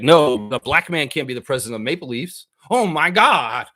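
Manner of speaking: hammed-up shocked fan; mock racist fan. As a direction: ham up an outraged old fan. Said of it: "The racist fans would be like".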